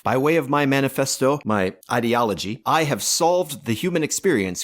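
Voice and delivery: grandiose tyrant proclaiming to comrades; pompous dictator, self-glorifying bluster; ranting dictator speech. Acted. Mock dictator rant, hosting.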